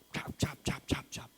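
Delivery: whispered playful bye-bye; teasing whisper. Retold or imitated. Father teasing his son who keeps the chocolate, whispered. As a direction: breathe the goodbyes teasingly.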